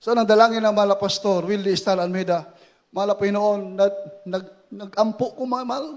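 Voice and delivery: low, hushed desperate prayer; murmured battlefield prayer; retold prayer. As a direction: plead quietly with God. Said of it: "Sabi ko".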